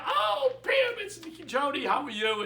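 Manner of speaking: high, loud delighted hello; bright greeting. Retold or imitated. Wife greets Pam on the phone with a loud, delighted hello. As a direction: greet her like an old friend on the phone.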